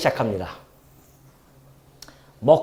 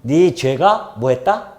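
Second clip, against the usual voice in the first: mild priestly proclamation; slower than usual. Retold or imitated. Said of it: "제사장이 선포를 하죠".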